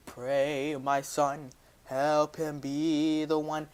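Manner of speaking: slow, lightly voiced solemn God. God speaking to his son, a slow solemn voice. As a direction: intone it slowly like a deity. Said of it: "God was all like".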